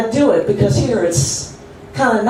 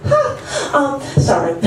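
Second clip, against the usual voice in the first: laughing burst; 4 semitones higher, much slower than usual. Acted. Wins at solitaire, bursts laughing.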